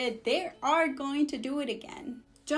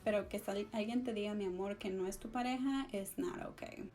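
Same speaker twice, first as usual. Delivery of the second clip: quiet; 4 semitones lower, 7 dB quieter than usual. Retold or imitated. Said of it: "I'm like".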